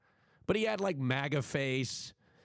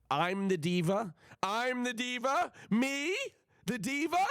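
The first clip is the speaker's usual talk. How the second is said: higher, rising outraged questions; indignant disbelief; 8 semitones higher than usual. Real, not acted. Reacting to chat calling her the diva, indignant disbelief. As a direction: scoff at the accusation in disbelief.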